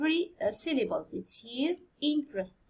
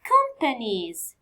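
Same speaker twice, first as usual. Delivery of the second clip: slow syllable read. Shown as a demonstration. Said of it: "six syllables".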